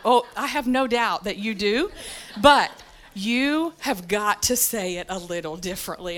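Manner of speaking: measured, patient reproof; very calm. Retold or imitated. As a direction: imitate an unruffled boss gently correcting. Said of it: "he sat there very calmly".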